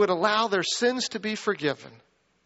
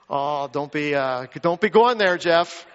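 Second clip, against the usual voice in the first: mock protest; 2 semitones lower, 4 dB louder than usual. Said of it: "all the Colombia people are like".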